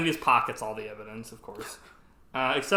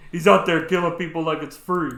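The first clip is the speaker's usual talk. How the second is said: much louder and higher, in disbelief; mock incredulous outburst; 5 semitones higher, 11 dB louder than usual. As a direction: throw the line back, loud and incredulous. Repeats the line in mock disbelief.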